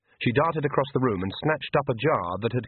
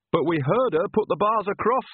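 put-on higher, wailing old woman; 9 semitones higher, 3 dB louder than usual. Nanny dismayed at the open door, higher wailing cry. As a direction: wail it out in dismay. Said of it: "wailed Nanny".

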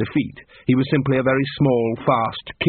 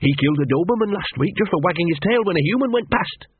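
higher, a touch of fearful fascination; fearful awe; 7 semitones higher than usual. A narrator's reading. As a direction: tell it half scared, half in awe. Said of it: "a mixture of fear and fascination".

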